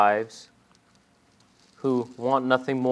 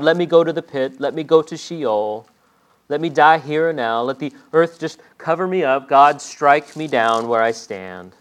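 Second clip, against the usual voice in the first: desperate plea; 2 semitones higher, 4 dB louder than usual. Acted. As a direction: beg God to let you die. Jonah begs God to die.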